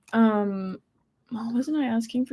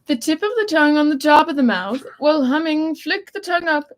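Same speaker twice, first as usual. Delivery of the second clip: tongue twister; 6 semitones higher, 5 dB louder than usual. Shown as a demonstration. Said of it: "reads instructions like a tongue twister".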